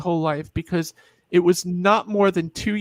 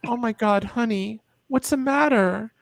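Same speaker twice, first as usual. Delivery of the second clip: higher, rising worried mother's voice; worried mom; 4 semitones higher than usual. Retold or imitated. Mom startled by her crying child, voiced higher and worried. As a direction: play the alarmed mom asking what's wrong.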